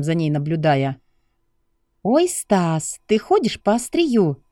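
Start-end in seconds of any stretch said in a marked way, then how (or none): 2.0-4.4 high female voice, half-teasing warning; warning young woman. Acted. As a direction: warn him he is on thin ice. Lucy warns Stas.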